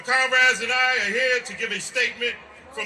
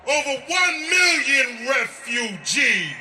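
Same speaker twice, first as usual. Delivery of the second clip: rally speech; 3 semitones higher, slower than usual. Real, not acted. Shouted rally statement.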